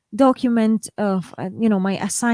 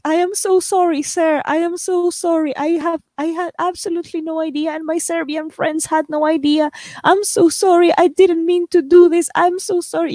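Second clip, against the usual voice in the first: higher pleading apology, retold with a touch of tears; lightly re-enacted teary sorry to the border officer; retold tearful apology; 5 semitones higher than usual. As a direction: pitch up and plead as if close to crying. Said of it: "I started crying".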